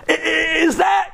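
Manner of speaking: stunned shout. Acted. King jumping off his throne, shocked and shouting. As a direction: stammer out in shock.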